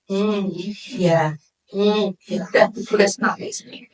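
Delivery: just murmur along to keep her happy; husband half-listening to his chatty wife, low and quiet; bored husband. Acted.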